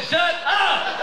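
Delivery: loud, high mock yell; high, forceful retold outburst; retold shouted order. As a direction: cut her off with an acted shout. Retold order to his wife.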